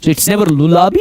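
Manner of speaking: 'lullaby' ऐसे नहीं जैसे गलत बोला जाता है; गलत 'lullaby' की हल्की नकल; wrong pronunciation. Shown as a demonstration. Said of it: "it's lullaby". (गलत उच्चारण)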